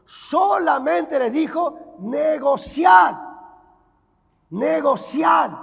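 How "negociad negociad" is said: slow, loud commanding call; slow emphatic decree; lord's command. Acted. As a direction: boom it out like a master giving orders. Preacher voices the lord's command.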